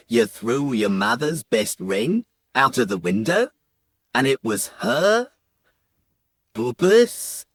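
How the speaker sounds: questioning accusation, each phrase lifting at the end; lightly voiced accusers, pausing before the last word; accusing crowd of bubas. Grandmothers crowding round the boy, accusing question. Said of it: "crowding round me going".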